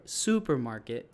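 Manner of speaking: slow "supermarket", first syllable lengthened; stretched stress. Shown as a demonstration. Teacher stretching a rubber band on the accent, drawn-out stress. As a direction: pull out the SU in "supermarket". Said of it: "you stretch it".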